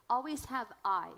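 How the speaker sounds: always hit loud and firm; stress on always. Shown as a demonstration. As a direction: punch the word always, then I. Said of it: "Always "I".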